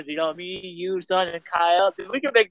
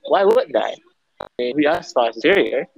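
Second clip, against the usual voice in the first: lower-pitched put-on British accent; 6 semitones lower than usual. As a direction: play a superior Brit. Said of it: "You can do your British voice".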